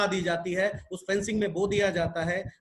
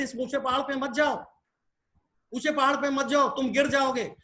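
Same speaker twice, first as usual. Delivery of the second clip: higher-pitched mock warning, mildly urgent; imitated warning calls; 4 semitones higher than usual. Crowd warning the frog off the mountain, higher-pitched imitated calls. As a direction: call out like a worried crowd, lightly acted. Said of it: "उसको लोग बुला रहे थे".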